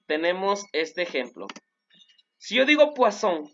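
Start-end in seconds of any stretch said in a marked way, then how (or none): 2.9-3.5 "poisson" with a hissed S, "pwa-SON"; normal S. Shown as a demonstration. Teacher gives an example, "poisson" with normal S. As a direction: keep the double S of "poisson" unvoiced. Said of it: "se pronuncia como si fuera".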